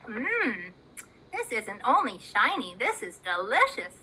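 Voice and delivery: a hint of a low crow, savouring; lightly voiced crow. Crowley tastes the shiny thing, low pleased murmur.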